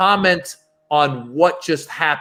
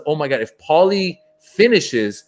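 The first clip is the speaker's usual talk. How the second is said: excitedly retelling a hopeful daydream, rising higher; recounting giddy anticipation; excited inner thought; 4 semitones higher than usual. Retold or imitated. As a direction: build to a higher-pitched, eager imagined hope. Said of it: "I'm thinking to myself".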